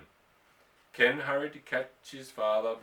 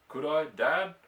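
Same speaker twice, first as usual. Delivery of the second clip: unflinching; 5 semitones higher, 7 dB louder than usual. Acted. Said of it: "repeated Ken unflinchingly".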